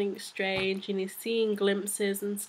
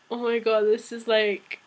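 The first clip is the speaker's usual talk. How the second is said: shocked disbelief; 6 dB louder than usual. Retold or imitated. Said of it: "everyone's just like".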